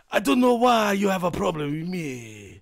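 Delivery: a fast mock Spanish accent. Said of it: "you have to slow down".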